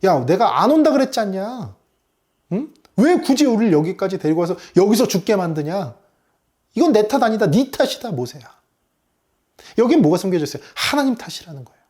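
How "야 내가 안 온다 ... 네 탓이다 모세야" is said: acted complaint. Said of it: "백성들은 지금 모세에게 막 이야기하고 있죠".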